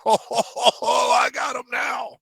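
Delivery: high, loud gloating laugh-shout; gleeful villain cackle. Acted. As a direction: crow with triumph, cackling. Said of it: "I have to play Borman like".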